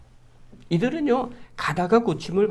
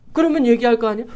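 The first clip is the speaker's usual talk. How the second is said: usual speaking voice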